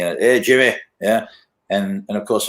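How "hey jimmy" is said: Scottish pub bloke. Retold or imitated. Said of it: "this guy was saying".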